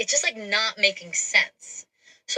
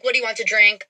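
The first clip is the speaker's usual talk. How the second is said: louder, pressing the question; mock pushy repeat; 3 semitones higher, 6 dB louder than usual. Date repeats the drink question louder and pushier. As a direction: repeat it louder, like he's insisting. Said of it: "Are we kidding?".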